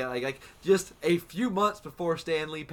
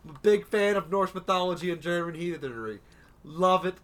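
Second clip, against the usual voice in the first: excited; 3 semitones higher, 3 dB louder than usual. Retold or imitated. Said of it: "and I'm like".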